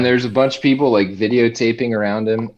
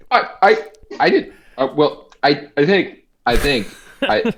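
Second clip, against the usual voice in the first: higher, stammering Trump voice; Trump impression; 5 semitones higher, 5 dB louder than usual. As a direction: stumble like Trump searching for words. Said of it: "when he's like".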